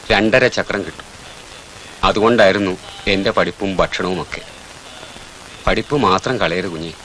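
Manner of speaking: put-on man softly consoling a crying orphan boy; tender confiding. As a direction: share your past to console him.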